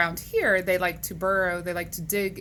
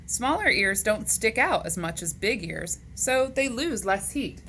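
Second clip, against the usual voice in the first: animated, measured picture-book reading; read-aloud to children; 3 semitones higher, slower than usual. Acted. Teacher reading animal facts to boys and girls, animated read-aloud. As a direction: read it out to young kids, lifting the questions.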